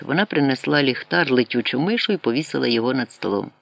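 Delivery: ordinary delivery, nothing marked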